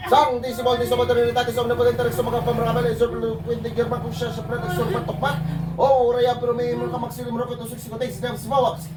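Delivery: steady rolling litany of holy names; rapid Latin incantation. Real, not acted. Healer casting out the spirit, chanting litany. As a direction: rattle off the invocation without pause.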